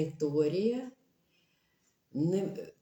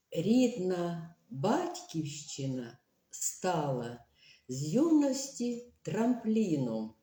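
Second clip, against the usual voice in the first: slow, measured recital of a verse; poem read aloud. Shown as a demonstration. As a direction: read it like a solemn poem line. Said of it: "послухайте таке речення".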